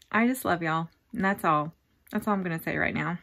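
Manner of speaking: low, subdued, real emotion; holding back tears. Real, not acted. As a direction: keep it low and short so the tears stay in. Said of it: "I'm not gonna cry".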